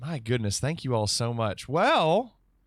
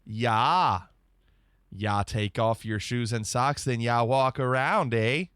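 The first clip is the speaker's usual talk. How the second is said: imitating line; 4 semitones lower than usual. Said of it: "Yes, John McClane. I know that line".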